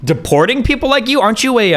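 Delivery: high incredulous question. Acted. Streamer mocking Hassan's deportation fear. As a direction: scoff in disbelief.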